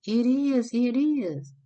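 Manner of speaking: high, loud, pleading insistence; insistent high cry. Retold or imitated. Telling a doubtful friend on the phone, insistent high cry. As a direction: squeal it as if nobody believes you. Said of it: "you was like".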